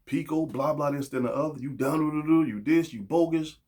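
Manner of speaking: tearing someone down. Acted. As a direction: rattle off a mock scolding. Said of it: "just tear me down".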